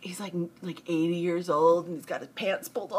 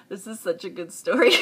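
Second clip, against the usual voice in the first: laughing; 5 dB louder than usual. Real, not acted. Laughing while telling story.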